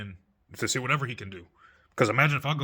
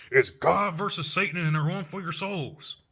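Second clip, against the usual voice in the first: higher-pitched mock-epic proclamation; mocking dramatic; 6 semitones higher than usual. Mimicking believers who pit God against Satan, mockingly dramatic. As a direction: hype it up in mockery.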